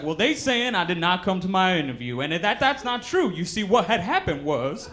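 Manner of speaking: caller's excuse. Retold or imitated. Caller stalling the supervisor with an excuse, hammed-up.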